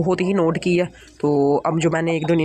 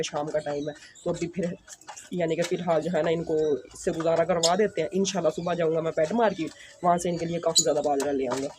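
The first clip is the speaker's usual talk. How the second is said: hushed near birds; 6 dB quieter than usual. Real, not acted. Close to the birds, talking low.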